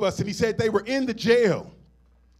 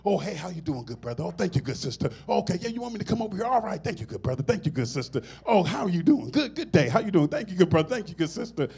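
imitating Doctor West; faster than usual. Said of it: "he talks like that when he's around us".

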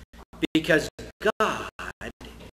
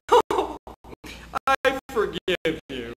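weeping judge; 7 dB louder, slower than usual. Retold or imitated. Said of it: "the judge says".

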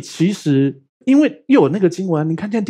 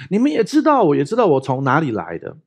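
calling out. Retold or imitated. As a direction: proclaim it as if crying out. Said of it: "很大声的对大家甚至呼喊的说". (轻度模仿的呼喊)

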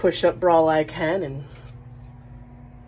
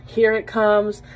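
a bit higher and louder, eager; rising excitement; 3 semitones higher, 4 dB louder, slower than usual. Retold or imitated. Wife bracing for a romantic declaration, excited. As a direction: lean in, it's finally coming. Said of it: "Oh my God".

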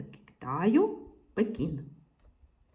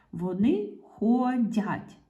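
slow "ходять", lingering on the ending; drawn-out sounding out; slower than usual. Shown as a demonstration. Teacher sounding out the verb to find its ending, drawn out. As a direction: stretch ХОДЯТЬ syllable by syllable.

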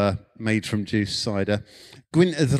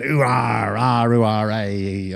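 lightly hammed-up West Country yokel noises; ooh-ah like a cartoon West Country cider farmer; a touch of parody West Country burr; mock West Country farmer; 3 semitones lower, slower than usual. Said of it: "marketing redolent of farmers".

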